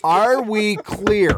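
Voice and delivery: "Are we clear" high and very drawn out; emphatic ultimatum. Acted. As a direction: hammer each word of "Are we clear" slowly. Repeats the ultimatum, bigger, after laughter.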